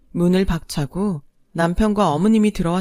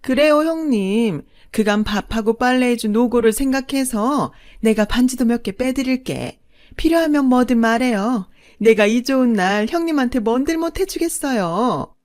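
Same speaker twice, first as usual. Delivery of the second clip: gloating mistress; 5 semitones higher, 4 dB louder than usual. A narrator's reading. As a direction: savour the win over the wife. (높고 느리게 얄밉게 빈정대는 둘째 어머니)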